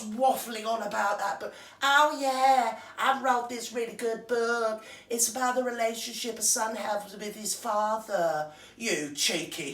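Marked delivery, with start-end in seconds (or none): 1.8-8.5 a hint of a put-on American starlet voice; lightly lampoon her bragging; mild mocking impression of a self-satisfied celebrity; mock Meghan.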